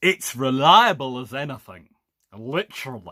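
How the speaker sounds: loud, goofy, silly put-on comic voice. Talking about Royal Navy torpedo aircraft, answering own question in a funny voice. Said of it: "I did that in a funny voice".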